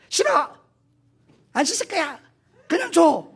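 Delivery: chillido agudo de niño terco; niño caprichoso. Acted. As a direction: grita como un crío que se niega.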